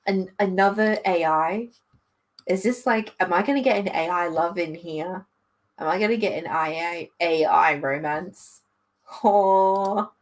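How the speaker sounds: hopeful questions building to a long oh; mildly giddy anticipation; a little excited. Real, not acted. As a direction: get carried away with fan hopes. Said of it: "I'm getting a little excited there".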